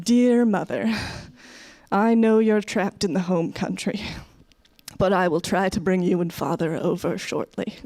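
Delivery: lightly mock-solemn letter reading; immigrant's letter home. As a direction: dictate an old-fashioned letter, pausing after each sentence. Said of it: "writing exactly the same letters home".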